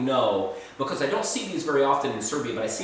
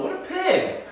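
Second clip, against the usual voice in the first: laughing; 3 dB louder than usual. Real, not acted. Laughs at own messy eating.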